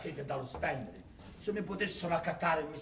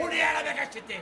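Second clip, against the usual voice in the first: anguished cry; 11 semitones higher, 6 dB louder, much faster than usual. Acted. Miser wails over his casket.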